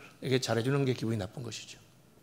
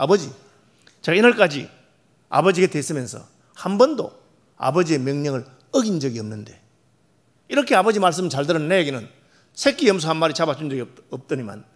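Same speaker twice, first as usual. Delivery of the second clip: louder, indignant grievance; the older son's angry complaint to his father; 5 dB louder than usual. Acted. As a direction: pour out the resentment at his father. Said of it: "이렇게 화를 냈습니다".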